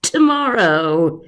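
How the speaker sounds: slow, drawn-out serpent voice; sly snake. Acted. The snake mocking Patrick for coming late, slow snake voice. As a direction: savour every word like a snake. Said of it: "he hissed".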